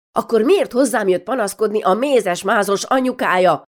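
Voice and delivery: mother rounding on her daughter, questions piling up; scolding mother. Acted. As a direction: grill her like a fed-up mother.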